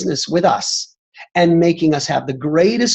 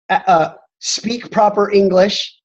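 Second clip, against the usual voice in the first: mock British accent; 3 semitones higher than usual. Host joking about British members, mock British accent.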